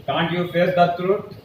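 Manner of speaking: very slow English question; slow classroom model line; slow dictation. Shown as a demonstration. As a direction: spell it out slowly for students. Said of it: "question mark लगाइए".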